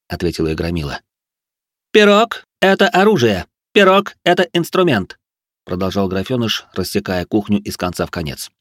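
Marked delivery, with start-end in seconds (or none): 1.9-5.2 high, loud fanatical proclamation; strange, squealy voice. A narrator's reading. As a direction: declaim it like a crazed orator. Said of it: "Голос Ричарда стал очень странным, выше обычного и с визгливыми нотками".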